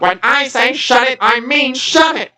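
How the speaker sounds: high, loud furious yell. A narrator's reading. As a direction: bellow the order. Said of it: "yelled Captain Zero, more furious".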